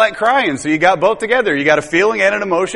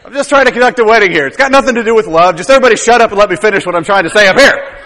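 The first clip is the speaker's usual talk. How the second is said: quick, raised, hurried officiant; mock flustered priest; faster than usual. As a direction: rush it like an impatient priest. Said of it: "proves his point".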